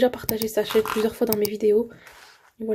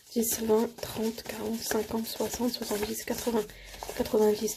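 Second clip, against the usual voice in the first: counting under breath; 5 dB quieter, slower than usual. Real, not acted. Vlogger counting banknotes for the savings envelopes, softly murmured. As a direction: count the notes half to yourself.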